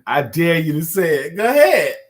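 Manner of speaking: loud, high-pitched challenge; daring. Real, not acted. Playful challenge to reluctant guest.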